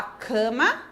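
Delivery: "cama" with the weight on ca; "cama" said to show its strong first syllable; stress on first syllable. Shown as a demonstration. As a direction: lean on the ca of "cama". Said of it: "tô fazendo força mais pra falar".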